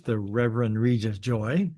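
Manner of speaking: Reverend Regis Joy said slowly; slow, careful name. Real, not acted. Host introduces his wife to the group, slowly and carefully. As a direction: take the tricky name carefully, word by word. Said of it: "I have to say that slow".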